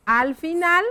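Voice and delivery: "Al final" measured, with final syllable held up; dictation. Shown as a demonstration. Teacher writes the closing connector, deliberate dictation. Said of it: "Acá vamos a escribir".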